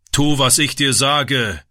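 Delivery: slow, stern scolding. A narrator's reading. Stepfather scolding the boy, slow and stern. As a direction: lay down the law, word by word. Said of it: "schimpfte der Vater".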